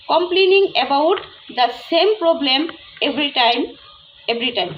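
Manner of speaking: slow, careful reading of a story line; story read aloud. Shown as a demonstration. Teacher to students, reading the story sentence slowly. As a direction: read it slowly so the class can follow.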